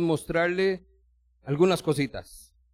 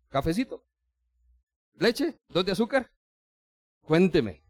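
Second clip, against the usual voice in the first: calm reassurance; 2 semitones higher than usual. Acted. God calmly receiving anxious visitor.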